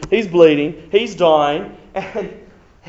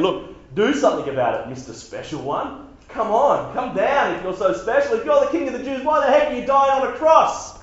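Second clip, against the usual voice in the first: mocking jeer; 4 semitones higher than usual. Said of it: "they're yelling at Jesus saying".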